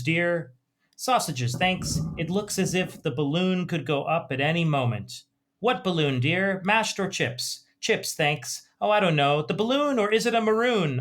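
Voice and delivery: put-on mild, cosy old-couple voices; reading an elderly British couple's dialogue. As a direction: read it like two gentle old Brits at home. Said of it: "I'm just gonna read a little bit of the dialogue".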